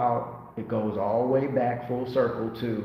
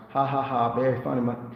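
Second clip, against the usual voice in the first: lightly voiced Eddie Murphy line. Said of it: "that was an Eddie Murphy line".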